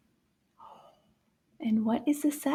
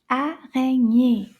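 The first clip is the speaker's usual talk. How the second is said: slow, loud "Araignée" in three beats; syllable-counting demo; 6 dB louder, slower than usual. Shown as a demonstration. Teacher counting syllables with children, slow and emphatic. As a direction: stretch out each syllable of "Araignée". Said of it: "Let's count the syllables in this word".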